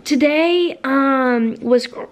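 talking through hiccups; hiccuping between words. Real, not acted. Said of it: "I've got the hiccups".

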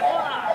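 a contained fighting grunt; kiai shout. Shown as a demonstration. Teacher showing one of two fighting noises, contained wah. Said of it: "the second one's like".

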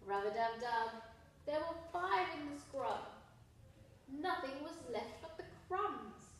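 lively read-aloud for little ones; reading to children. Acted. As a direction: read the rhyme with a bounce for the kids. Reading a rhyming picture book aloud.

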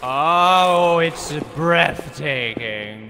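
slow, low and soft, in awe; hushed awe. Pretend. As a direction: breathe it out in wonder. Mock awe at aqueduct.

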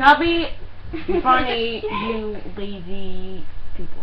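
slow, stuffed-cheek mumble; mouth full. Real, not acted. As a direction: say it through a mouthful. Chubby bunny game, marshmallows in mouth.

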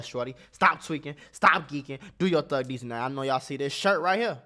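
lightly voiced hype vlogger; hyped vlogger character. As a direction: hype the channel like a flashy vlogger. Plays character Mac Moolah.

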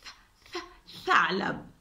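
ث sound stretched before ثعلب. Shown as a demonstration. Teacher sounding out ثعلب for children. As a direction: break the word into its first sound, then the whole word slowly. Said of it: "كلمة".

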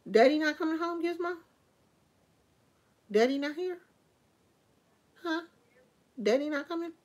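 talking to pet. Real, not acted. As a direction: coo at the dog, pitch way up. Talking to her pet Gizmo.

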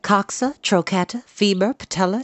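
high, instructive spider voice; Charlotte. A narrator's reading. Spider repeating the names for the pig, high reciting voice. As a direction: recite each term high and separately.

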